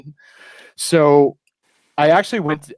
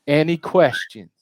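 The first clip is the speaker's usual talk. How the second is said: slow, drawn-out mock briefing; retold instructor; 3 semitones higher, slower than usual. Laser tag girl briefing families, slow imitated announcement. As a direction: imitate staff laying down rules, slowly. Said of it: "And she goes".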